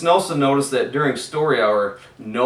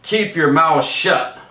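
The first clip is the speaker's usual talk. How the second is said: stern teacher; 5 semitones higher, 8 dB louder than usual. A narrator's reading. Miss Swamp barking orders.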